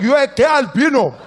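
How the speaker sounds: put-on high, loud shouting drunk uncle. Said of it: "He's like".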